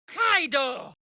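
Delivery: high, sharp shout; high combat call; battle cry. Acted.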